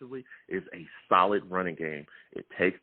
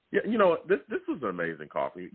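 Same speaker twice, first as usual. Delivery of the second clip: laughing. Real, not acted. Host laughing at guest's praise.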